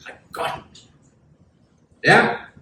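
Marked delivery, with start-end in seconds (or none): 0.1-0.8 soft, whispery "gotcha"; acted quiet gloating, almost voiceless; gloating enemy. Enemy gloating at the provoked leader, hushed and sly. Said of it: "Yeah, and he's like".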